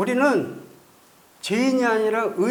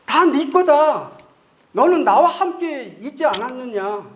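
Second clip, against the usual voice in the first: father's voice; 5 semitones higher, 3 dB louder than usual. Acted. Father speaks to elder son.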